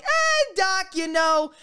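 high, sliding "Eh, doc" like a smooth operator; oozing easy charm at the doctor; slick smooth-talk. Retold or imitated. To his psychiatrist, brushing off the question, smoothly slick. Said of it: "I am so slick now".

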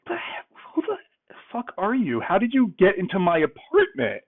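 high-pitched mock outrage at a stranger; retold angry yelling. Date confronting him in her apartment, imitated angry yell.

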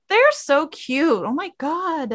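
high, drawn-out gushing; swooning. Real, not acted. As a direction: coo slowly over an adorable couple. Swooning over the couple on screen.

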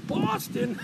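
high, incredulous word breaking into a laugh; mock incredulous laughing. Hockey player laughs in a fan's face, mocking and incredulous. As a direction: burst out laughing in disbelief. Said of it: "he busted out laughing in my face".

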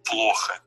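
"плохо" stretched, accent on the first O; stress on first syllable. Shown as a demonstration. Teacher showing where the accent goes, "плохо" stressed early. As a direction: lean slowly on the first O of "плохо". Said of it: "where you should put the accent".

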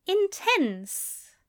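high-pitched echo with a falling end; Aziraphale echoing. A narrator's reading. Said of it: "Aziraphale echoed".

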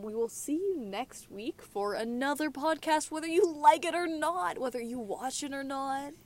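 singsong YouTuber outro; lightly put-on video host patter; YouTuber sign-off. Real, not acted. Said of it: "sound like a Minecraft YouTuber".

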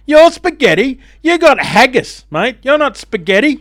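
high, loud scoffing retort; incredulous high mock outrage; mock outraged retort. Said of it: "And I thought".

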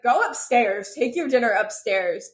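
loud, mildly panicked order; mock freaking out. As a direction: imitate a flustered man sending someone away. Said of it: "freaking out".

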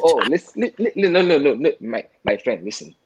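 mock African accent, high and loud; hammed-up African accent. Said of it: "thick African accent".

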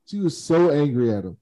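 ordinary delivery

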